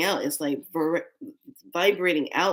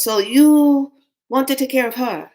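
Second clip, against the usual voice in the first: stern papa; 7 semitones higher, 8 dB louder than usual. Retold or imitated. Spirit dad questioning at adoption.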